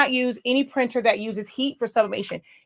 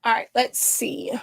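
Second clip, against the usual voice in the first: whisper. Real, not acted. Reading chat quietly to self.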